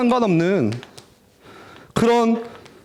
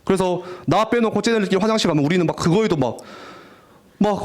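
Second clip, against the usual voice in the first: normal talking voice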